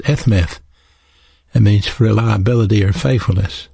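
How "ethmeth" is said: ethmeth as "eth-mith"; Hebrew pronunciation. Shown as a demonstration. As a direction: sound out ethmeth with "th" ending each syllable. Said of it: "E H M E T H pronounced".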